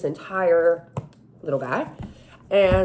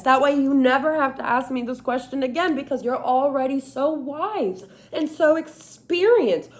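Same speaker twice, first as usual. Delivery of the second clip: a hint of a smug coworker, higher and slowed at the end; smug, cheeky; 4 semitones higher than usual. Jesus at his computer answering her smugly and cheekily. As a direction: patronize her gently, enjoying it. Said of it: "look at me kinda smug, kinda cheeky".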